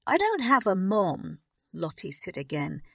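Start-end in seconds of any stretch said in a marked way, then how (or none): 0.1-1.4 less loud. A narrator's reading. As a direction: still raised but calmer wail. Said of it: "but not as loudly".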